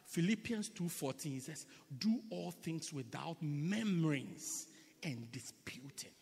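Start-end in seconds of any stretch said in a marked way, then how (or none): 2.0-6.1 slow hushed whispered verse; whispered Bible verse. Shown as a demonstration. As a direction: breathe the scripture out quietly. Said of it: "Murmured again. The church is very quiet".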